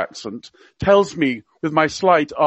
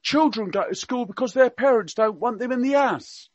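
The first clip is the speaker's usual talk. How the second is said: higher, hammed-up Cockney accent; Prince Philip in Cockney; 7 semitones higher, 4 dB quieter than usual. Radio guest quoting royal gaffes to listeners, mock Cockney accent. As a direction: play the old duke's gaffes in mock Cockney. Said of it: "he spoke with a Cockney accent".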